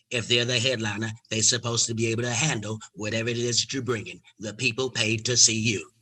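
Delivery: a hint of a low, weighty Katt. Katt telling the young comic he's next. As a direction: deliver it like a godfather's blessing.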